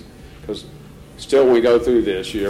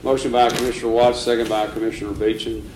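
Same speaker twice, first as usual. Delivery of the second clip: dictating. Acted. Reading motion slowly for record.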